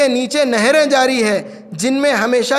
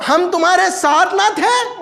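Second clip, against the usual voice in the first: acted cry, pitched up; mildly raised, pleading question; 4 semitones higher than usual. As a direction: call it out to those who left you. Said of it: "چلا چلا کر کہیں گے".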